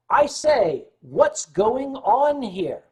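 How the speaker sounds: high, slow prim British voice; mock-refined British voice in the security guy's translation; posh translation. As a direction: translate it into a prissy gentleman. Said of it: "that means".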